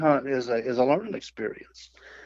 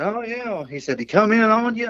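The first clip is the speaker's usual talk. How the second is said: high mock brother; 8 semitones higher than usual.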